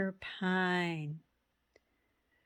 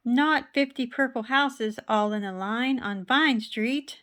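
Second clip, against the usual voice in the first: louder protest; 4 semitones higher, 6 dB louder than usual. Acted. Mister Pine protests.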